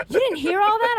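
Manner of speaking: lightly hammed-up mother asking in disbelief; mock mom voice.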